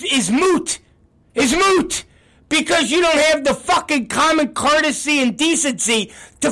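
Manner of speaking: high, heated, insistent scolding; angry rant. Real, not acted. Boss telling employees their promises are moot, indignant and angry.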